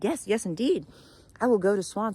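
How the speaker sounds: high, loud, eager agreement; excited, hopeful. A narrator's reading. Raven agrees to visit swan, excited and hopeful. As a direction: burst out with new hope. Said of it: "the raven's so excited now, feeling a glimmer of hope".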